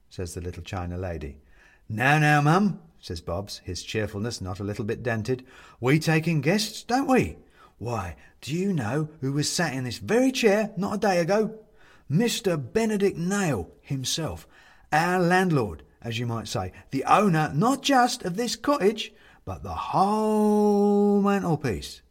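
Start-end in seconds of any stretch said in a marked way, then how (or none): 1.9-2.8 bright, higher, quick chatty host voice; cheerful Bobs. Acted. Bobs reassuring the ghost guest, cheery and quick. 5.8-22.0 bright, higher, quick chatty host voice; cheerful Bobs. Acted. Bobs reassuring the ghost guest, cheery and quick.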